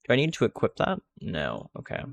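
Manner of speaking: hiccups between words; hiccuping. Real, not acted. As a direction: talk through the hiccups. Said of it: "I don't know why I'm hiccuping".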